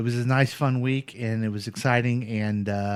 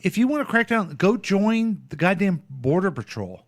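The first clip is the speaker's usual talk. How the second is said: higher, worked-up indignation; exasperated rant; 7 semitones higher than usual. Real, not acted. Ranting to co-host about the candidate's ad, exasperated. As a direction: blast the idea, incredulous and fed up.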